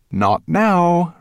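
high, loud dismissal; dragon refusal. A narrator's reading. Dragon overruling his dwarf, dismissive. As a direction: brush the servant off firmly.

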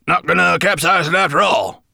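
high, loud sighed relief; sighing. A narrator's reading. Dwarf clinging to horn as boat escapes, sighing. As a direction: sigh it out as danger passes. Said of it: "sighed Gravelbeard".

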